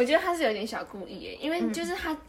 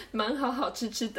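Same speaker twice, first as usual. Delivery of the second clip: put-on laughing baby talk. Mock cutesy baby talk, laughing.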